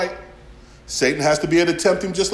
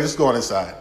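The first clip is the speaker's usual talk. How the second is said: low urgent dog voice; 5 semitones lower than usual. Retold or imitated. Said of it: "She's like".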